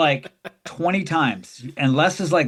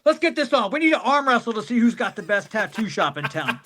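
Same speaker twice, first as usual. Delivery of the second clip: showman challenge; 4 semitones higher than usual. Retold or imitated. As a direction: hype up the arm wrestling like a ringmaster. Les challenges fans to arm wrestle.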